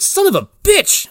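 put-on high, drawn-out old-lady cussing; mock cursing. Old lady run over, mock indignant curse.

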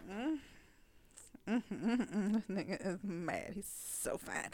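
soft, appreciative murmuring; hum, then murmur admiringly to yourself; admiring inner voice. Retold or imitated. Acts out her admiring inner voice.

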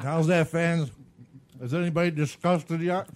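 talking with mouth full. Real, not acted. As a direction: speak around the food. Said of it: "Talking with our mouth full".

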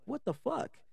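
a squeaky, stunned retelling of her own reaction; retold shocked what the fuck. Shocked at being sent elsewhere.

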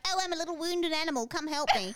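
lightly pitiful high voice; wounded animal plea. Retold or imitated. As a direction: play a helpless little creature. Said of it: "type of person to be like".

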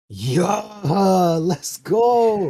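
high, loud, drawn-out celebration; hammed-up victory yell; ecstatic cheer. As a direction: belt it out like you just won a prize. Reacting to a free burger.

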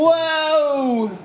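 shrieking high, loud whoa; high goofy whoa. Acted. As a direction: squeal it cartoonishly. Goofy exclamation.

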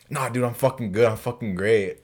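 lightly mimicked drunk kid insisting he's great. Drunk kid answers whether he's been drinking, mock bravado. Drunk kid's boastful denial retold.

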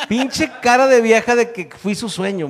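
high-pitched protesting retort; hammed-up indignant comeback; mock indignation. Snaps back at audience reaction.

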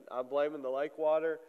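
stuffy, congested voice. Real, not acted. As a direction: talk through a congested head. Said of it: "a little bit congested".

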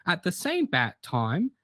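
hammed-up old-fashioned northern host; mock northern accent. Co-host thanks listeners in a lightly put-on northern accent. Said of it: "a little bit northern".

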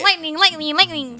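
high, very loud repeated chant; hype shouting. Pretend. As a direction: belt it out like a segment jingle. Loudly echoing the segment jingle.

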